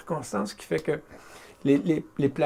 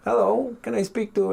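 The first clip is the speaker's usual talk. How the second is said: put-on English accent; 4 semitones higher than usual. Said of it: "avec un accent anglais".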